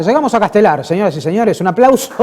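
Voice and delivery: host welcoming a viewer from Castelar; game-show host hype. Acted. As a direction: whip up the studio crowd. Host hypes a far-off viewer.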